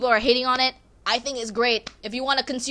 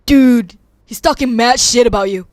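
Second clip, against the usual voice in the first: louder urgent gossip; classmate's call; 9 dB louder than usual. Retold or imitated. Classmate warning her about the teacher, loud. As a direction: call it out to a friend. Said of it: "my classmate next to me said".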